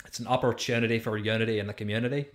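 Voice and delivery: lightly done Northern Irish accent; a quick Northern Irish accent, a bit fast. Shown as a demonstration. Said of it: "Do you wanna hear my, uh, Northern Irish accent?".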